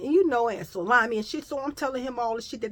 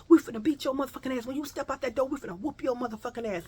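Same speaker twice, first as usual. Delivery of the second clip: fast, rattled-off threat; rapid threat; 3 semitones higher, faster than usual. Retold or imitated. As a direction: spit out the threat quickly. Girls threaten to beat her.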